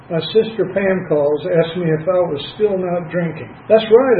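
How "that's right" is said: proud reply, higher and louder; great pride. Retold or imitated. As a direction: announce it proudly, voice lifted. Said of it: "I replied with great pride".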